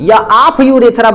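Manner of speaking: very slow, word by word for writing down; slow dictation. Shown as a demonstration. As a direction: dictate it slowly to the class. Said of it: "तब बोलेंगे".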